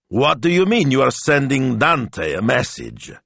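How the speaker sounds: high, slow, incredulous question; alarmed. Acted. Shop owner learns she is messaging Dante, alarmed. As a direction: draw out the alarmed demand. Asks again with a skittering feeling.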